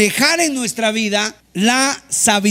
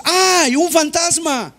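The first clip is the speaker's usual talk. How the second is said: mock-frightened, higher cry of alarm; 5 semitones higher, slower than usual. Disciples seeing Jesus on the sea, mock-frightened cry. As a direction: play the disciples scared of a ghost. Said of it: "gritan asustados".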